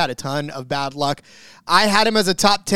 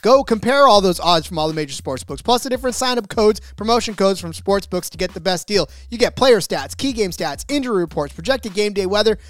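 upbeat, pushy sponsor read; 2 semitones higher than usual. Acted. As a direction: sell it like a radio spot. Host reads a sponsor ad.

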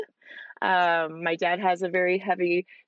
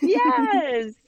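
excited; 14 semitones higher, 5 dB louder than usual. Real, not acted. Enthusiastic agreement.

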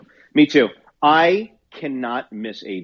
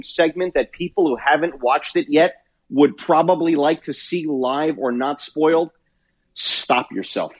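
wrestling promo. Pretend. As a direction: cut a promo to the audience. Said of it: "I'm gonna cut a promo right now".

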